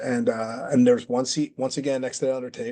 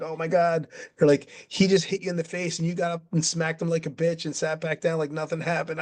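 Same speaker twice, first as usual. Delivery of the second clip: higher, retold crowd astonishment; onlookers' amazement; 4 semitones higher than usual. Onlookers telling the wrestler what he just did, imitated amazement. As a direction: imitate onlookers marvelling at the fight.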